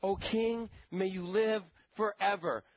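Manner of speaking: respectful greeting. Retold or imitated. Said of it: "how he acts".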